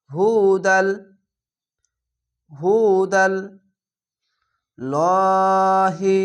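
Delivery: হুদাল joined into লহি without stopping; Quran recitation. Shown as a demonstration. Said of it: "মিলিয়ে পড়তে হবে". (না থেমে মিলিয়ে পড়া)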